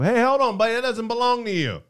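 mock white guy voice. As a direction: imitate a suspicious white shopkeeper. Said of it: "used to hear this from white people".

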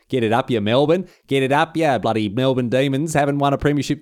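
hammed-up broad Australian jeer; mock fan taunt. Tigers fan jeers Melbourne supporters in broad Australian. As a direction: taunt the Demons like a terrace heckler.

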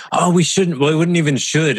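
quiver it like a scared inner voice; trembly fear voice. Retold or imitated. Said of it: "It's this sort of trembly fear sort of voice".

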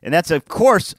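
normal talking voice

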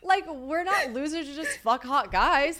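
high, laughing protest. Real, not acted. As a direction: insist while cracking up.

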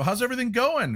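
high-pitched neighborly check-in; cheery greeting, retold.

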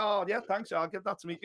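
soft, underwhelmed mumble of thanks; mock tame thanks. Mocking a boxer's meek reply to a gift, underplayed. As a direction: play it down, mildly polite and deflated.

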